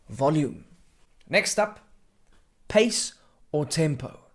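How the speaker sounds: whispered pace demo. Shown as a demonstration. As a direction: keep it whispered and close. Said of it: "whispered delivery continues".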